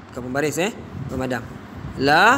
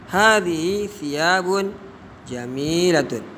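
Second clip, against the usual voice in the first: slow model phrase; slower than usual. Shown as a demonstration. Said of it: "Tapi gunakan hadhihi saja".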